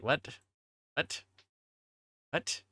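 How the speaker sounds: ordinary talk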